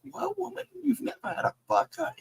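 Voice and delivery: high-pitched mock outrage; shocked disbelief. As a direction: squeak it out in disbelief. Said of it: "I was like".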